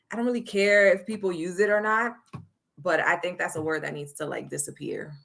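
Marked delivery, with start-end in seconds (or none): none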